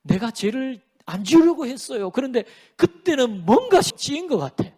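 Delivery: imitated excuse-maker; making excuses. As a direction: plead your case like someone dodging blame. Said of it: "그건 여러분, 변명이에요".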